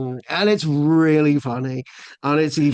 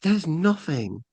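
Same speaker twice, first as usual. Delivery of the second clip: disappointed thought; 5 semitones higher, slower than usual. Retold or imitated. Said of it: "a slight disappointment in it".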